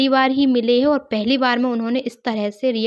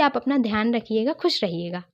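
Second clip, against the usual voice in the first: lovingly. Retold or imitated. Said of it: "इतने प्यार से बोला".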